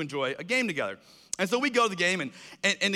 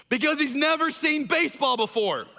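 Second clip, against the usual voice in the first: higher, bold proclamation with stress on never; yells out; 7 semitones higher than usual. Retold or imitated. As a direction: announce it boldly to the crowd. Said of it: "yells out this line".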